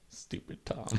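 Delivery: whispered insult. Retold or imitated. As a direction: mutter it under breath. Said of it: "Jerry's like".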